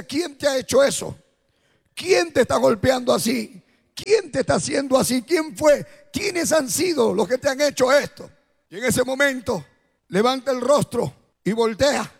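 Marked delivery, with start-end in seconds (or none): 0.0-8.3 raised, urgent questions to the beaten man; anguished calling out. Retold or imitated. Man in his dream crying out to the victim, raised and urgent. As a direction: demand who did this, voice lifted. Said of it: "él le hablaba y le decía".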